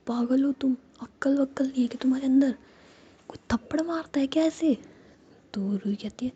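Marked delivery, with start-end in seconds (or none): 0.1-4.8 indignant. Acted. Jiya shocked after slap.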